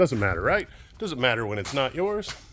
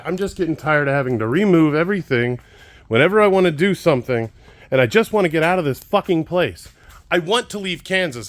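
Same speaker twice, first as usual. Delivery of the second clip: frustrated; 5 semitones higher, 4 dB louder than usual. Real, not acted. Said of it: "I'm frustrated".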